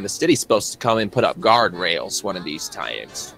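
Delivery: lightly voiced friendly backwoods fella, easygoing; a hint of a folksy stranger, unhurried welcome; folksy country mechanic. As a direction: play a chummy small-town grease monkey. GM voices Judas complaining.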